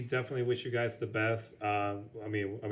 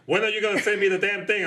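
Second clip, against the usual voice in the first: lightly acted impatient caller, higher and louder; mock pestering demand, raised pitch and volume; Christopher Lloyd; 7 semitones higher, 6 dB louder than usual. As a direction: badger them in a half-voiced impression. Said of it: "Christopher Lloyd still calls me every day".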